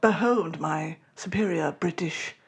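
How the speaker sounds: mild put-on British accent; a lightly British Spider-Man; bad British Peter Parker. Host playing Peter Parker with bad British accent. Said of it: "I'm gonna do a British accent".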